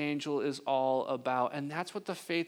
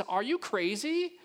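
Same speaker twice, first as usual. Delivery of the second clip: incredulous; 5 semitones higher, slower than usual. Retold or imitated. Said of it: "that tone of voice is".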